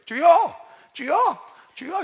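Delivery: short, high calls, separately spaced; unpractised prayer call. Retold or imitated. Untrained pastor leading the triple prayer call, short weak-winded shouts. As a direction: call it out briefly each time without sustaining it. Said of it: "기도 인도할 때 이래요".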